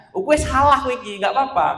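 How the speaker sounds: "kowe salah" said lightly, then brushed off with "gak apa-apa"; scold, then let him off gently; soft excusing reproach. Shown as a demonstration. Teacher showing the wrong way, a half-hearted scold. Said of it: "Kalau memang salah, bilang salah".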